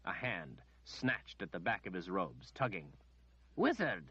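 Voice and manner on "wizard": sour, raised call from behind; a sour noblewoman summoning the wizard. A narrator's reading. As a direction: call him out sourly. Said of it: "came a sour voice from behind".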